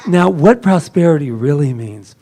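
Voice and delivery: a hint of a hushed, holy guru; mock the solemn spiritual teacher lightly; sacred voice. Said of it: "in sacred voice".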